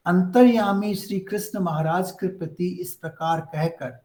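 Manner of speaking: fast, even Hindi verse recitation; scripture reading. Acted. Teacher reciting Sanjay's verse to the class, fast reading. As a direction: read the verse through at speed.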